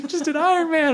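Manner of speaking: high-pitched mock outburst; imitated worried protest. Retelling partner's worried, tearful reply.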